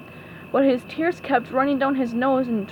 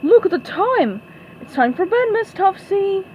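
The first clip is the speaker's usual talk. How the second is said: higher and louder, hurried alarm; flustered cry; 8 semitones higher, 4 dB louder than usual. A narrator's reading. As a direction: fuss her off to bed. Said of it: "she cried".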